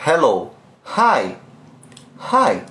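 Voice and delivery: "hello, hi, hi" com H bem soprado; fogging-glass h. Shown as a demonstration. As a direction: embace o vidro no H de "hi". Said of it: "Mas você vai embaçar". (H de bafo, soprado)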